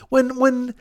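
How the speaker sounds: high-pitched heated rant; worked-up exasperated tirade; rising rant. Real, not acted. Escalating rant about outraged fans.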